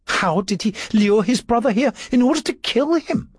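high-pitched woman's question; a questioner's voice pitched well up; Julia. A narrator's reading. Julia asks how he lured his brother, high voice. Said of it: "Julia said".

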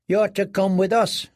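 put-on a curt young squire; squire boy. A narrator's reading.

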